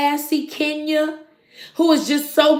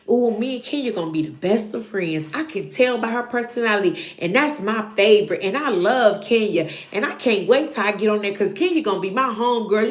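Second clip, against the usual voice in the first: excited fan; 3 semitones lower, faster than usual. Retold or imitated. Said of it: "get excited and say".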